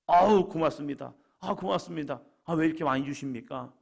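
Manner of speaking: acted grateful exclamation, loud at first; effusive thanks. Workers thanking the master for a generous wage, effusively. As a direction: gush thanks like an overpaid worker.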